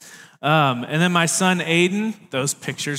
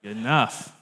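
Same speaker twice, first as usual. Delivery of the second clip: lowered standards, resigned; desperate shrug. Retold or imitated. Boss desperate to hire anyone, resigned. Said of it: "you're desperate to hire somebody".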